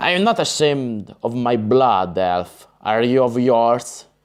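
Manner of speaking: usual speaking voice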